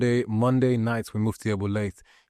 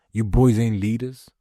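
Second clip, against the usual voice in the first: louder emphatic call-out; 5 dB louder than usual. Real, not acted. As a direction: call them out to their face. Repeated line, loud take.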